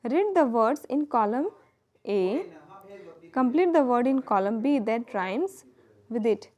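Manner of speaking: slow instruction read. Shown as a demonstration. Teacher reading textbook instruction.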